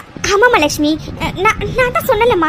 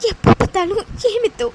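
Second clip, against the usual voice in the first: crying. Acted. Bride fears bad omen, crying.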